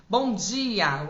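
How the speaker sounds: lively, lifted bom dia; animated good morning. Shown as a demonstration. Coach demonstrating a cheerful greeting, lively. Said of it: "um bom dia mais animado".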